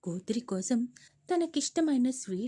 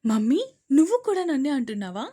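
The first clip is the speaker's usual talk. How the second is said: crying; 2 semitones higher, 9 dB louder, faster than usual. Acted. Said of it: "ఏడుస్తూ తల్లిని ప్రశ్నిస్తూ".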